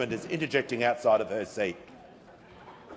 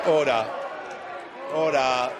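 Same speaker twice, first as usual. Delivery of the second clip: shouting order. Real, not acted. Speaker calling chamber to order.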